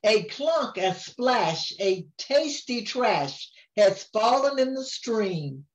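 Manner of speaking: sing-song storybook reading; rhyming lines read aloud to a grandchild; reading to a child. A narrator's reading. Grandma reads the picture book to her grandchild, sing-song.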